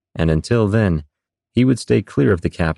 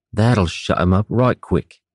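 rough sailor voice; slower than usual. Acted. Jiminy's rough aside continues.

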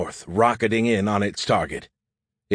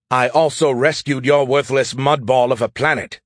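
hot retort; 3 semitones higher, 5 dB louder than usual. Acted. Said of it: "Skippy shot back hotly".

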